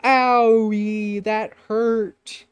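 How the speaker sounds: high, loud, drawn-out elf whine; hammed-up pained elf voice; hurt elf. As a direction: wail it like a wounded cartoon elf. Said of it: "it's just like an elf just going".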